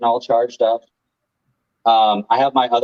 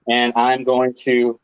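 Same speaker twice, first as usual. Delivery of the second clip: far from mic; 3 semitones higher, slower than usual. Real, not acted. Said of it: "Sounds like he's far away".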